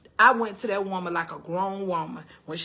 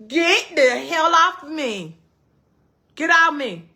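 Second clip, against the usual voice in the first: slow, louder mock yell; cussing him off; 5 semitones higher, 5 dB louder, slower than usual. Wife woken by husband, slow mock yell. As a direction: push him away with words. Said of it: "And then I start cussing".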